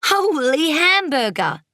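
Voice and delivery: high, slow, drawn-out astonishment; amazed exclamation. A narrator's reading. Child sees babysitter's rainbow hair, amazed. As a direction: stretch it out in amazement.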